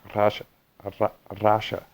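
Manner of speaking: "Rasha" with a single Russian R. Shown as a demonstration. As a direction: try one Russian-style R in "Ra, Rasha". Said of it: "it's hard to do".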